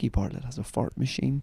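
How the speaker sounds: said quietly. Podcast host, after introducing the co-hosts, says the next bit quietly. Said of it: "Let's say this quietly".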